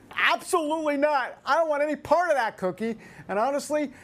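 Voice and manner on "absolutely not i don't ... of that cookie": higher-pitched put-on voice for Madison's flat no; a lightly voiced, indignant no thanks; mock refusal. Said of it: "Madison says".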